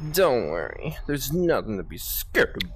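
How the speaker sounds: mock-seductive, low and soft; seducing voice. Player mocking friend's "seducing" reassurance in scary game, mock-seductive. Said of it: "fucking seducing voice just like".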